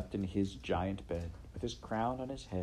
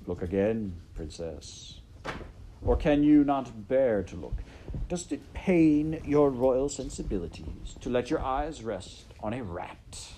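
sneering rat voice, a bit raised; mocking rat; 4 semitones higher, 6 dB louder than usual. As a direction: taunt her as a sly rat. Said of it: "said Roscuro".

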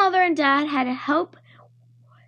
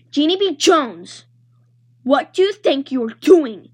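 mild growl; 5 dB louder than usual. Acted. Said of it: "she growled".

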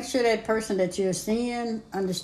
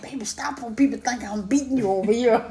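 retold plea breaking into laughter; joking plea. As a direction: tease a crying partner to make them laugh. Retelling joke that cheers crying partner.

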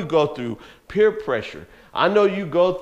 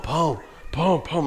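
imitated thumping noise; 4 dB quieter, slower than usual. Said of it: "you just hear this loud pum".

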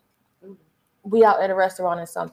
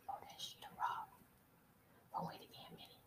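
very soft, hushed fan whisper; 30 dB quieter, much faster than usual. Acted. Fan at the next table spotting a podcast host, whispered. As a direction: whisper it under your breath. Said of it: "Why you whispering".

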